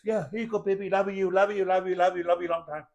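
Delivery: lightly voiced sing-song parent cooing at a baby; a hint of a careless dad repeating love you; mock doting parent. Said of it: "I feed you like this".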